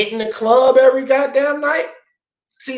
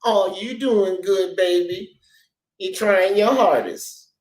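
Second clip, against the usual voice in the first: mock coddling; slower than usual. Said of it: "I'm supposed to accept".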